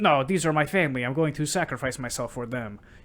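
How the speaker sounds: deliberately bad, put-on Mexican accent. Recapping a story's ending, quoting the character, bad El Diablo Mexican accent. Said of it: "That's why I did a uh, did that bad accent".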